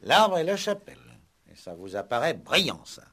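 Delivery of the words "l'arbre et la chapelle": louder and higher, mocking the answer; scornful exasperated echo; exasperated repeat. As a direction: throw his words back at him in disbelief.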